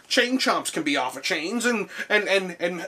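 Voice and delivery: high, rising protest-speech voice; rally the minions with mock indignation; protesting game minion. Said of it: "Bowser's Minions have, like, uh, have a protest".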